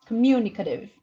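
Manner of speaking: communicative, stress on the second syllable mu. Shown as a demonstration. Teacher models the correct stress on communicative. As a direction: lean on mu in communicative. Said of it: "The stress is mu".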